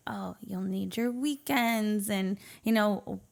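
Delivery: whispered, slow imitation of the grandparents' offer; mock grandparent whisper. Retelling grandparents' offer to babysit, slow whispery imitation. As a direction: hush it like a kindly elder, slowly.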